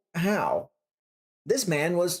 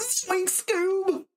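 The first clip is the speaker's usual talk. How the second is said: high, dopey cartoon stoner; cartoon stoner guy. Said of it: "cartoon stoner guy".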